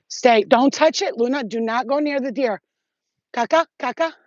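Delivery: commanding the dog Luna; calling the dog. Real, not acted. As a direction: stop the dog from going near the deer. Calling dog away from deer.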